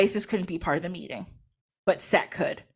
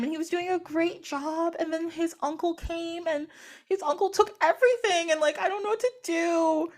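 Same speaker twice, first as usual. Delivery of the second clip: high-pitched, halting damsel in distress; feigned upset; 7 semitones higher than usual. Pretend. Disguised Isis telling Set her woes, feigned upset. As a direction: spin a sob story, badly faked sorrow. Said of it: "I'm so upset".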